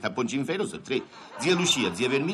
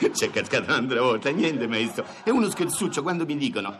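normal talking voice

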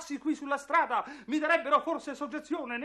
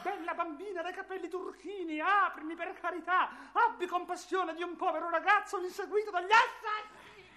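crying plea; 3 semitones higher than usual. Acted. Begging, chased by assassins.

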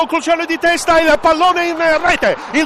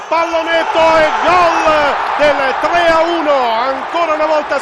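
breathless italian goal commentary; 3 dB louder than usual. Real, not acted. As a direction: stretch out the goal call. Goal called out.

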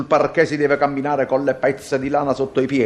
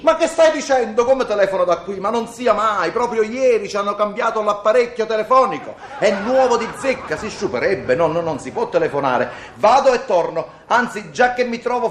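high, mock-outraged refusal; emphatic italian speech; 6 semitones higher than usual. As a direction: pretend to be scandalised. Husband mocking the wife's rules.

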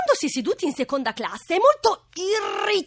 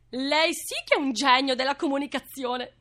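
normal talking voice

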